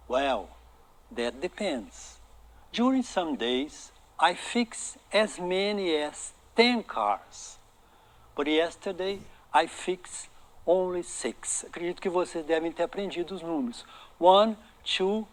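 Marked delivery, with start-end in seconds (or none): 0.1-11.6 slow pronunciation model. Shown as a demonstration. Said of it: "o foco meu tá sendo mais a pronúncia".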